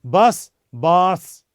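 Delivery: बस short, then बास with a long drawn आ. Shown as a demonstration. Teacher contrasting Hindi बस and Arabic बास, slowly. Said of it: "थोड़ा सा pronunciation में फर्क है".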